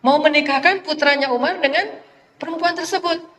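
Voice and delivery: surprised. Retold or imitated. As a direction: react with a shocked gasp of a question. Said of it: "Langsung ibu ini kaget".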